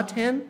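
"ten" with a plain T; ten com T puro. Shown as a demonstration. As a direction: keep "ten" free of any S. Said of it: "o T puro". ("ten" com T puro)

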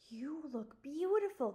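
slow, admiring and hushed; admiring whisper. A narrator's reading. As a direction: breathe it out in admiration. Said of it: "in an admiring whisper".

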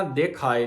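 ਦਿਖਾਏ said with a short i after ਦ, sihari; ਦਿਖਾਏ as "dikhāe"; pronunciation of ਦਿਖਾਏ. Shown as a demonstration. Teacher corrects the congregation's ਦਿਖਾਏ. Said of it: "ਦਿਖਾਏ ਨਹੀਂ ਕਹਿਣਾ".

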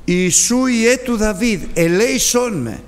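a blind beggar calls across the crowd; crying out. Acted. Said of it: "άρχισε να φωνάζει κι αυτός".

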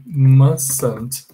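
"mustn't" as MAS-unt, no t sound; "mustn't" with the t swallowed. Shown as a demonstration. Teacher repeating mustn't for students. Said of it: "the negative form must not is".

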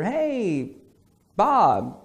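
put-on high, drawn-out hello to an old friend; friendly greeting. Old friend calls late at night, acted friendly high greeting.

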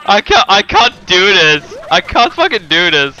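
breaking up with laughter; can barely get the words out for laughing. Real, not acted. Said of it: "with the straight face anymore".

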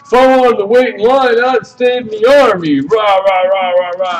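mock loud ranting. Veteran complaining about waiting in line, mock loud ranting. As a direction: imitate his rant, starting high and fading into rah-rahs. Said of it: "the dude starts getting loud".

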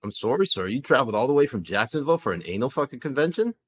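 polite, puzzled Canadian with an "eh"; comic Canadian accent, rounded "sorry". Acted. Host checks what the visitor said, Canadian accent. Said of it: "Canadian accent".

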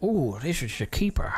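whispered creepy villain line; Austin Powers gold guy. Retold or imitated. Mimics a movie villain for viewers, hushed creepy voice. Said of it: "it's like the Austin Powers".

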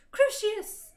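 loud, high spell shout; loud hammed-up wizard yell. A narrator's reading. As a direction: fling the curse at her at full volume. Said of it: "I shouted".

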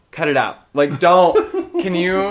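loud, emphatic telling-off; exasperated scolding. Retold or imitated. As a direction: snap at an annoying coworker, retold. Scolding coworker in retelling.

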